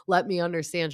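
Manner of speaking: lightly imitated concern; mock sympathy. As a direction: offer a pretend sympathetic plea. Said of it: "Instead of being like".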